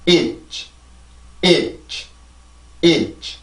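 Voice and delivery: itch soft and short, the ending fading out quietly. Shown as a demonstration. Teacher models the end of college softly. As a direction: let itch die away gently. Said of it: "뒤에부터 발음을 해볼까요".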